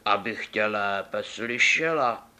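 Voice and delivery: slow, lightly disguised wolf voice; a hint of the wolf under grandma. Wolf in grandma's bed answers the girl, slow and sly.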